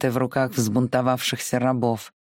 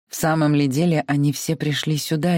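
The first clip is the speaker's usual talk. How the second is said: plain reading voice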